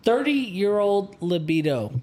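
slow and clear for the phone; repeating to voice assistant. Real, not acted. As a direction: spell it out for the assistant. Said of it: "Hey, Alexa".

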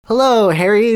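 high sing-song hello; mock chorus of a family; chorused greeting. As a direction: greet him like a creepy chorus. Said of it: "the Weasleys chorused in unison".

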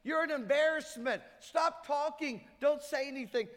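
a crowd rebuking a blind beggar, scolding shout; angry crowd hushing. Retold or imitated. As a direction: shout him down with contempt. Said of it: "They're like".

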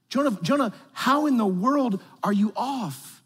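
preacher pleading with a stubborn prophet; pleading exhortation. Real, not acted. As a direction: plead with him, almost pained.

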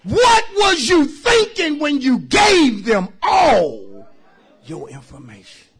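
high, loud, drawn-out holler; exasperated scolding. Acted. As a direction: stretch each phrase in loud disbelief. Exasperated scolding of the scammed member.

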